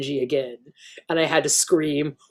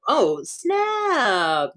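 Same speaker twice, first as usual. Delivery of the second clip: excited; 8 semitones higher than usual. Acted. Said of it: "mock excited reaction to ad".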